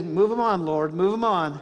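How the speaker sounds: loud churchy call-and-response; loud amen-corner shout of move 'em on; congregation call-out. Shown as a demonstration. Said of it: "you can say".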